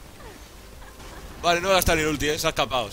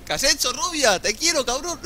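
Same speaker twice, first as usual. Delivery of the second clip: excited; 11 semitones higher, 3 dB louder than usual. Real, not acted. Teammate's big play during match.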